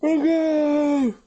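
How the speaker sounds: high, loud Northern European shout; wrestling promo. Pretend. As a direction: bellow it like a hyped wrestler. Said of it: "he's gone Northern European".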